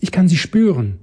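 high excited shriek on spüren; high-pitched gleeful ghost; shrill ghost cry. A narrator's reading. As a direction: crow it like a hunting spirit. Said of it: "schrie das kleine Gespenst".

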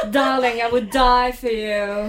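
slow, syrupy fake sweetness; fake polite. Mocking a fake-polite partner in a fight, slow and sugary. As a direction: drip false devotion. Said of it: "you gotta be really fake polite".

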